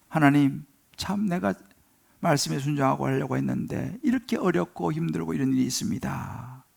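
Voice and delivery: low, soft confiding prayer; 하소연 기도. Acted. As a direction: lay the burden before God, subdued. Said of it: "하나님 앞에 나아가서". (낮고 조용하게 털어놓는 기도)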